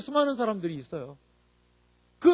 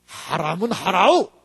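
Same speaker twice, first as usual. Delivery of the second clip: slow, firm North Korean-style command; North Korean accent; 7 semitones lower, slower than usual. Retold or imitated. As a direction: lightly imitate a stern North Korean pastor. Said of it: "어떻게 얘기를 하냐면".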